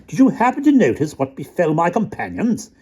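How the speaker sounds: high, airy and casual; nonchalant little soldier. A narrator's reading. Soldier asking rat about companions, high and airy. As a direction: feign indifference about his friends. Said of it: "he asked nonchalantly".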